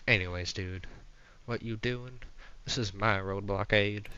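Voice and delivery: lightly voiced Southern dude; a hint of Southern swagger; Southern accent. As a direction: play a Southern anti-government dude. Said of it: "This guy's Southern now".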